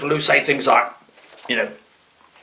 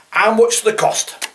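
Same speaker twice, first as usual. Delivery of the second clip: higher, slow mocking repeat; mocking wrong grammar; 7 semitones higher than usual. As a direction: parrot the wrong phrase. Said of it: "How much does it cost?".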